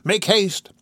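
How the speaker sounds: high, urgent deathbed plea; dying old woman. Acted. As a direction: hurry them in a high, strained voice.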